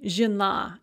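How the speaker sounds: "zhena" with a reduced first vowel, stress on the a; unstressed ye as "e". Shown as a demonstration. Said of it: "ye is pronounced as an e".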